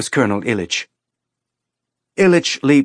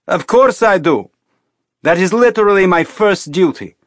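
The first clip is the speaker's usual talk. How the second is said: high, loud scornful tirade; furious rant; 6 semitones higher, 4 dB louder than usual. A narrator's reading. Colonel ranting at Teresa to get in the cart, furious. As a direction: berate her like a furious parent.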